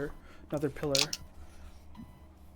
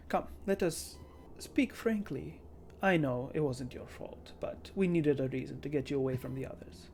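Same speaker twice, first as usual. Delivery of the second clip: villain voice. Acted. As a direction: coax her calmly, menacing. Villain speaks slowly.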